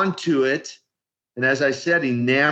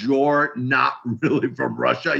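lightly imitated broken Russian accent; a hint of broken Russian-accented English; 3 semitones lower than usual. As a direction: echo it back in a halting, mock Russian accent. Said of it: "kind of a broken accent".

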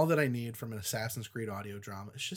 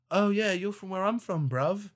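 higher-pitched put-on British chumminess; mock British accent; 6 semitones higher than usual. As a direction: imitate her in a broad British accent. Mimics character relating, British slang.

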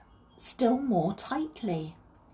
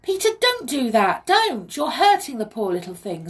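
high, loud plea to stop; alarmed protest; 6 semitones higher, 7 dB louder than usual. A narrator's reading. Molly stops Peter hurting the thing, alarmed. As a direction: protest urgently, pitched up.

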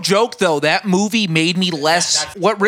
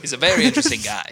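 quick, higher Dafoe voice; Willem Dafoe impression; 5 semitones higher, much faster than usual. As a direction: lift it and rush it, Dafoe-style. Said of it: "and he's like".

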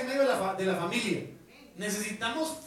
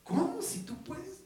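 higher, slow, amazed "¿Cómo si tú puedes?"; Jesus' incredulous question rising much higher; Jesus asking again, higher; 9 semitones higher, 3 dB quieter, slower than usual. Acted. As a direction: repeat it climbing up in disbelief. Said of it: "Jesús le dijo".

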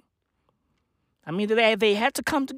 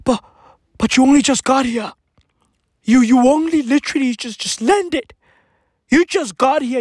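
louder, pleading, a touch higher Bruce; whiny Bruce; 3 semitones higher, 4 dB louder than usual. Acted. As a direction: whine like a jilted lover. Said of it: "Bruce gonna be like".

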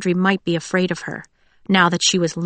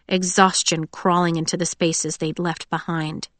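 plain reading voice

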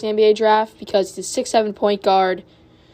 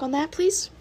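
voice cracking; 7 semitones higher, 6 dB quieter than usual. Real, not acted. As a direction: pitch suddenly cracks up. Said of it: "voice crack on my part".

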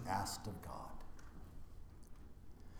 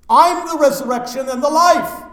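loud, much higher proclamation; proclaiming; 13 semitones higher, 15 dB louder than usual. Acted. Preacher voicing Jesus to mourners, loud proclamation. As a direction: declare it at full force.

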